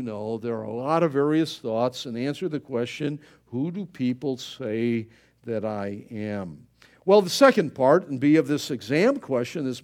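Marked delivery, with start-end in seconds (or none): 3.5-6.7 solemn Jesus quote. Acted.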